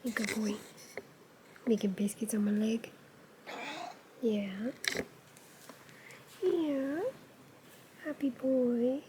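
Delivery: soft whisper. Real, not acted. Whispering to viewers about the cat kneading her leg. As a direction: breathe it out quietly.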